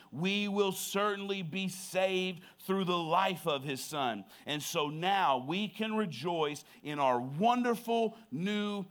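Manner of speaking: measured, deliberate Bible reading; solemn pulpit reading; scripture reading. Real, not acted. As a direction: read the passage aloud with weight, stretching key words.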